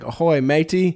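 attempted Irish that comes out Australian; botched Irish accent. Host trying Irish on wife's request, botched accent. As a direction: badly fake an Irish accent. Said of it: "that's Australian".

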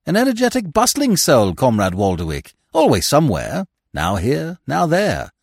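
lightly voiced genial gentleman musing aloud; a hint of lofty amusement; airy club member. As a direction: muse grandly on a bustling friend.

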